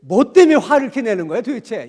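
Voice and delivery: loud, rough demand; harsh, picking a fight; rough harsh question. Shown as a demonstration. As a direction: snap the question at them. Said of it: "그 얘기를 거쳐".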